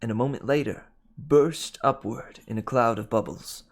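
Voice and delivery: measured audiobook narration; story narration. A narrator's reading. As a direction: read the adventure aloud, clearly articulated. Reads the novel aloud.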